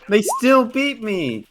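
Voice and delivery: high, drawn-out whine; hammed-up complaint, stretching the words; pretend-tearful cry of defeat; mock wailing. Player keeps up the mock crying.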